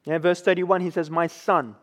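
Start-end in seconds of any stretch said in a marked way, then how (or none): 1.1-1.7 soft, tender father. Retold or imitated. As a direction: speak it gently, softer, as a loving father. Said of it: "we hear with great tenderness".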